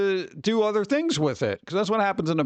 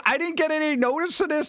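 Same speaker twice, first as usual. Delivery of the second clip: mock outrage; 10 semitones higher than usual. Retold argument with the bank.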